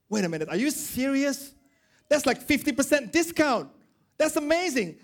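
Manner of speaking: debtor gasping at a discount, pitch climbing; stunned and delighted, voice rising high; amazed debtor. Acted.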